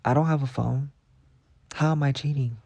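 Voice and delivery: mock-offended student arguing innocence; incredulous retort. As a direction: protest the accusation, high and outraged. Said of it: "I'm like".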